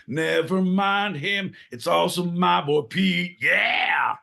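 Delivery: put-on cheeky South London bloke accent; mock South London accent. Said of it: "we're gonna do accents".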